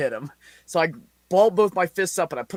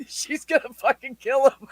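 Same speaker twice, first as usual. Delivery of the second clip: coworker's alarm; 10 semitones higher than usual. Retold or imitated. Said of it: "That's what she said".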